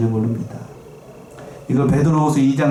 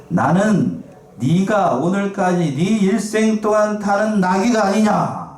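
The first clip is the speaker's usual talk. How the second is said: slow, higher, deliberate rebuke; slow donkey's rebuke; 6 semitones higher, slower than usual. Acted. Preacher voicing the donkey scolding Balaam, slow and raised. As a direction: speak as the wronged donkey, slowly.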